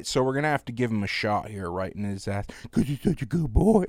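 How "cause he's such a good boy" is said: put-on high cooing baby talk; vet's baby voice. Vet sweet-talks the dog in a high baby voice before the shot. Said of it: "going in and out of baby voice talking to the dog".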